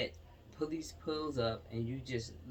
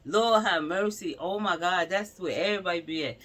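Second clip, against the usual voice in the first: shocked exclamation; 3 semitones higher, 7 dB louder than usual. Real, not acted. Recognizing the shooting location, alarmed and loud. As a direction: gasp it out in alarm.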